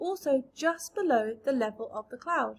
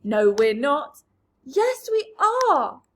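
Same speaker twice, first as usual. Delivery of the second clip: panicked bickering; 3 semitones higher, 10 dB louder, slower than usual. A narrator's reading. Travellers quarrel in panic.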